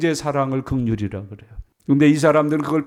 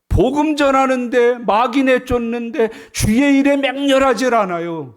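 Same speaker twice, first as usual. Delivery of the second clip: rising preaching; 7 semitones higher, 5 dB louder than usual. Acted. Preacher rebuking church.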